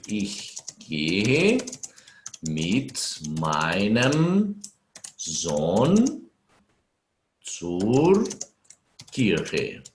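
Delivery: spaced out word by word, very slow; word-by-word dictation. Shown as a demonstration. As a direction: dictate each word as you type it. Teacher writes while dictating. (ditado lento, palavra por palavra)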